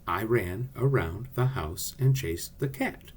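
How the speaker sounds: slow da-DUM beat on "I RAN aROUND the HOUSE and CHASED the CAT"; measured pace, stressing every second syllable of "I ran around the house and chased the cat"; iambic pentameter demo. Shown as a demonstration. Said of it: "to form an iambic pentameter sentence".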